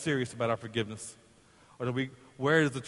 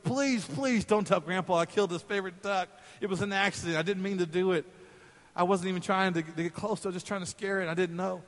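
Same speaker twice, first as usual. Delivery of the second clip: put-on pleading boy; 5 semitones higher than usual. Boy begs sister not to tell.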